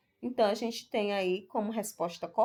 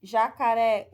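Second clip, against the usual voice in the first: jacaré with a strong, louder final RÉ; stress on the last syllable; 5 dB louder than usual. Shown as a demonstration. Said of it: "Todas elas possuem a última sílaba tônica". (jacaré com a última sílaba forte)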